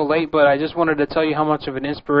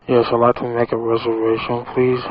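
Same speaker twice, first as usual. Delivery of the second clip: talking around a pen; words round a pen held in mouth; 3 semitones lower than usual. Real, not acted. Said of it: "I got my Jack Masterson pen in my mouth".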